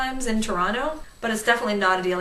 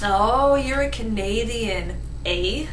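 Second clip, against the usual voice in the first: slow, mock-amused imitation; mock discovery, stretched out slowly; teasing American caller; slower than usual. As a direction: imitate a caller poking fun, drawn out.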